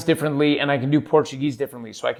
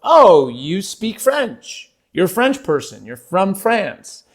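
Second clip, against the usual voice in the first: slow, drawn-out mock amazement; imitated impressed onlookers; 4 semitones higher, slower than usual. People reacting to his fake French, mock impressed. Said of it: "people sort of look at me and they're like".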